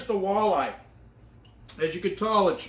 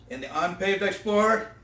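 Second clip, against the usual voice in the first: shouted sign-off; 2 semitones lower than usual. Real, not acted. Sign-off catchphrase.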